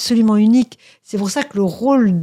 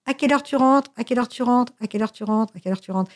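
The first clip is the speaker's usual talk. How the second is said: skipping record; 3 semitones higher, faster than usual. Retold or imitated. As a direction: repeat it like a stuck record, dying away. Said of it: "ça fait comme un disque rayé".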